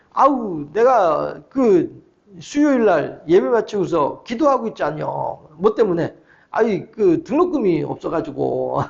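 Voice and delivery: low, unhurried, folksy Jeolla drawl; savoury Jeolla storyteller impression; Jeolla dialect. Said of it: "전라도 사투리 아주 구수하게 쓰는 친구거든요".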